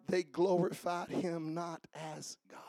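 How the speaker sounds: soft unvoiced whisper of they glorified him not as God; whispered scripture. Pastor reading the verse to the church in a whisper.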